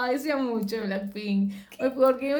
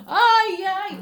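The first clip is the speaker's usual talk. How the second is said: high-pitched little yelps, acting it out; hammed-up high fussing; mock fluster; 7 semitones higher, 5 dB louder than usual. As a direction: squeal it in mock embarrassment. Acts out fussing after spilling coffee.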